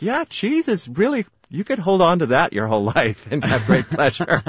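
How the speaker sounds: high, bright enthusiastic gush; excited. Retold or imitated. Her present self voiced.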